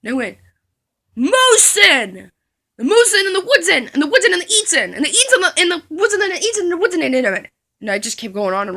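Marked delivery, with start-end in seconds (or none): 1.2-7.5 higher, laughing nonsense chant; silly run-on giggling; giggly rambling. Retold or imitated. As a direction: ramble on while cracking up.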